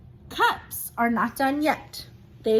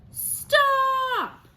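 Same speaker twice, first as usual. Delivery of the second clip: sharp, much higher and louder shout; yelled stop; 12 semitones higher, 5 dB louder than usual. Acted. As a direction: cry out to stop the child. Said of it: "her parents yelled".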